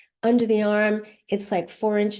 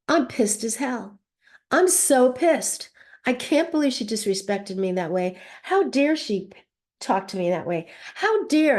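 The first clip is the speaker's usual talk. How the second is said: demonstrated indignation, pitch jumping on key words; pissed off; 3 semitones higher than usual. Shown as a demonstration. Mother venting about her daughter's disrespect, pissed off. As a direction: vent mild outrage, leaning on the angry words.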